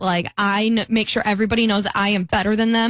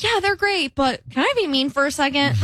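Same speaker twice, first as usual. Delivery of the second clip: sly gossip; 4 semitones higher than usual. Retold or imitated. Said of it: "you can be like".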